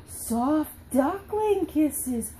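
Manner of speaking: put-on slow, drawn-out reveal for a child; delighted reveal. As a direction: stretch it out with playful wonder. Revealing book page to child.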